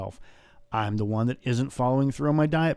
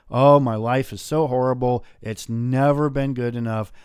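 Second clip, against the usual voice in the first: mock whining; 4 dB louder than usual. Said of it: "bitch and moan about".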